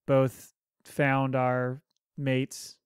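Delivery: slow, stiff robot delivery; spoken stiffly like a robot. Real, not acted. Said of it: "Now I sound like a robot".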